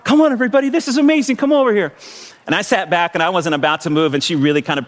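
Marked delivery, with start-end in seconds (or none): 0.0-1.9 lightly voiced gushing nurse calling everyone over. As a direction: coax a room like little kids. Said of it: "the nurse is like".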